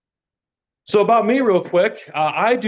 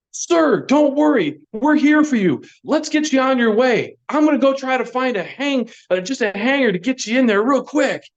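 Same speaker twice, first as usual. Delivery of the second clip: higher, overly helpful bystander; a mock helpful stranger voice; eager helper; 6 semitones higher than usual. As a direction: chirp it like a helpful good Samaritan.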